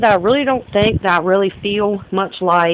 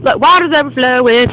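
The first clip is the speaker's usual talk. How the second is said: alarmed; 6 semitones higher, 7 dB louder than usual. Real, not acted. Water overflowing again.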